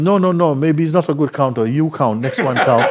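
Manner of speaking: high, loud protest that the counter is bad; fussy insistence. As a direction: hurriedly push the next fool to count. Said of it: "I said".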